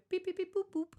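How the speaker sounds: high beep-boop ATM noises; mock machine beeps. Client playing a human ATM, mock beeps. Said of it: "he'd make the noises?".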